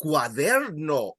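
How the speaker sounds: slow "Cuaderno", middle syllable stretched; stress on DER. Shown as a demonstration. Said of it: "you stress the second last syllable".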